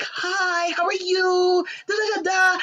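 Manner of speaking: imitating a bubbly high-voiced woman; pleasant greeting. Stepmother greets her husband's son, mock bubbly and high. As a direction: chirp it, overly cheerful. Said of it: "she was quite pleasant".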